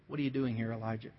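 soft, low, hushed voice of God; a gentle whisper from God in the cave. Acted. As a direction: let it fall to a hush. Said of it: "came a gentle whisper".

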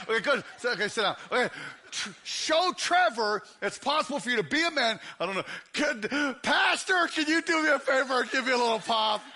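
usual speaking voice

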